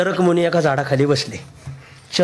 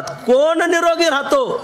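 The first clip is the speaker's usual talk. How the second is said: bird asking; 9 semitones higher, slower than usual. Acted. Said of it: "परत दुसऱ्यांदा विचारलं".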